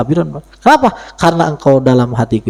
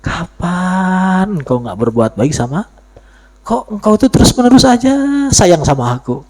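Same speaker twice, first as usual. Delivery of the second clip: tender; 3 semitones higher than usual. Retold or imitated. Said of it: "ketika digagalin gimana?".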